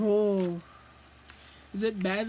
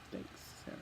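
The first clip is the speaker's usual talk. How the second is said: sarcastic; 17 dB quieter than usual. Real, not acted. Sarcastic thanks to the author.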